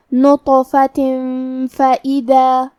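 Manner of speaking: نطفۃ فَإِذَا with the tanween hidden and nasal; ikhfa with ghunna. Shown as a demonstration. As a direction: hide the tanween before فَإِذَا. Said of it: "تنوین کو چھپاتے ہوئے اور غنہ کے ساتھ". (تنوین کا اخفاء غنہ کے ساتھ)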